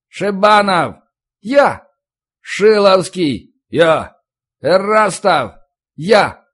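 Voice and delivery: loud high names and answers; roll call shouts. Acted. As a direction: call out over the parade ground. Roll call on parade ground.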